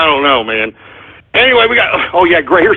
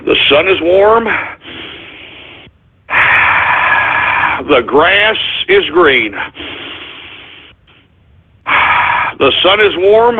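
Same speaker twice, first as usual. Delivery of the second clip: mock calming mantra; 3 semitones lower than usual. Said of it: "Let me just take some breaths here".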